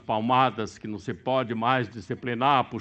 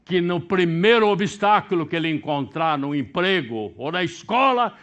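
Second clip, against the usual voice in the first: forceful preaching; 7 semitones higher, 8 dB louder than usual. Acted. Warning about weak children.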